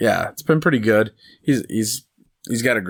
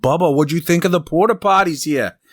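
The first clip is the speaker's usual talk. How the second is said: high, loud mock-innocent heckle with laughs; high, loud teasing heckler voice breaking into laughter; heckling golf fan; 10 semitones higher, 4 dB louder than usual. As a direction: needle the golfer like a cheeky fan in the crowd. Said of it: "and he's like".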